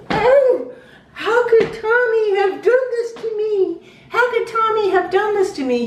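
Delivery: high, loud theatrical wail; hammed-up self-pitying lament; mock wailing. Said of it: "he started doing this crazy thing".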